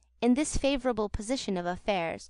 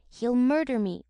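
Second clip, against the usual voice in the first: blubbering; 3 semitones higher, 5 dB louder than usual. Acted. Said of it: "blubbered Noah".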